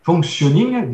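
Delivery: slow English read in a heavy French accent. Real, not acted. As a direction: work through the English term carefully in a French accent. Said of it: "excusez mon, mon anglais, mon accent".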